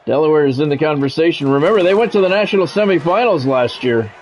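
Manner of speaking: easy broadcast patter through the field goal; announcer commentary. Acted. Gamer announcing the field goal miss, TV announcer. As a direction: talk it up like a college football broadcast.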